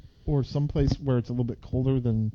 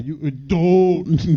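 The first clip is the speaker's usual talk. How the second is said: put-on Canadian accent; 5 dB louder, much slower than usual. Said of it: "'Cause in Canada".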